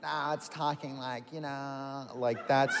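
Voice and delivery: vocal fry. Shown as a demonstration. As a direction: drop into a lazy vocal fry. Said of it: "isn't that vocal fry?".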